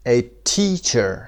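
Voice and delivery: slow "teacher" with TEA stressed; stress on first syllable. Shown as a demonstration. Teacher models "teacher" for students, first syllable stressed. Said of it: "قسمت اول".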